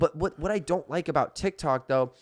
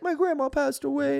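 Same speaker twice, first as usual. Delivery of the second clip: mock video voice; 14 semitones higher than usual. Voicing a sad TikTok video.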